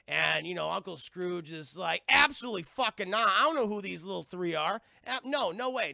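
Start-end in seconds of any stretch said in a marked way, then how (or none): 2.1-5.9 loud, raised mock outrage; indignant refusal. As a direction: refuse loudly like an affronted uncle. Scrooge flatly refuses the nephews.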